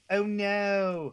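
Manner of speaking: high, loud cartoon bee voice; cartoon bee impression. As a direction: quote the bee character with a big squeal. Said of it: "you know the voice of the gay bee?".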